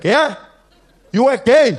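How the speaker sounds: put-on high, loud drunk uncle voice; a confused drunk shout. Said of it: "And he was like".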